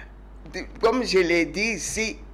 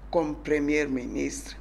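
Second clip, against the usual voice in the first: awed whisper; 4 semitones lower, 5 dB quieter than usual. Real, not acted. Thanking the president for a woman prime minister.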